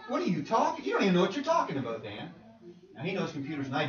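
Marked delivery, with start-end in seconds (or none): 0.1-2.3 mock scoff. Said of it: "I'm saying".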